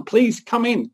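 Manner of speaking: a high, gentle plea to come inside; pleading father. Acted. Father begging his resentful older son to come in, pleading. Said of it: "the father pleads with the older son".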